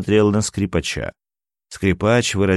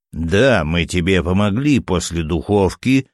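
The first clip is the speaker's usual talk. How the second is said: plain reading voice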